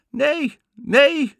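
put-on very high, loud girl's call; calling back. A narrator's reading. Sister calls back down to the girl, high and loud. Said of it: "riep Anna terug".

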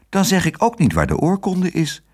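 high-pitched, bold little retort; spirited child holding firm; plucky, firm. A narrator's reading. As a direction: stand your ground pluckily. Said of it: "zei Otje flink".

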